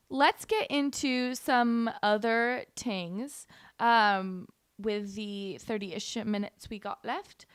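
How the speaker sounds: lightly put-on British accent; fake British accent. Host moving to other topics, in fake British accent. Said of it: "there's my British accent again".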